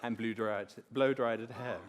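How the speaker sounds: laughing through the words; can't keep a straight face; chuckling while telling the punchline. Real, not acted. Laughing at the confession.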